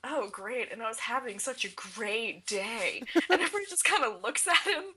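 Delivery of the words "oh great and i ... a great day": sarcastic. Retold or imitated. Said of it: "And Raphael goes".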